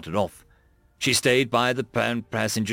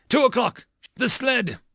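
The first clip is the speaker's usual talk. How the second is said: high, raised yell; shouted target call; 10 semitones higher than usual. A narrator's reading. Bradford points her gunner at the sled, shouting. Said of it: "she shouted".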